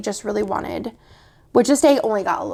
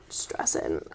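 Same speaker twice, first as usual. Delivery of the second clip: whispered; 11 dB quieter than usual. Real, not acted. Repeats word, first whispered.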